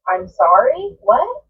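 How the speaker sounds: a sharp high jump on the final what; stunned disbelief. Retold or imitated. Teen girl stunned by her boyfriend's mother, disbelieving. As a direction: ask it like you misheard an insult. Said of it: "And I said".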